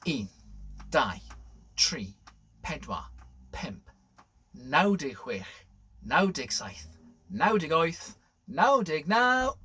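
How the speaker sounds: Welsh counting. Shown as a demonstration. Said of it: "We'll do it in Welsh".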